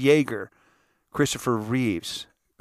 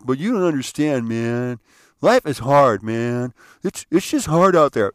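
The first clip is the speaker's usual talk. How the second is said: retold attitude; 2 semitones higher, 6 dB louder than usual. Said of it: "he kinda gave me the attitude".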